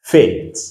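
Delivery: fate with a clear "ay"; English long A. Shown as a demonstration. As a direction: model fate alone with a falling tune. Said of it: "let us say, fate".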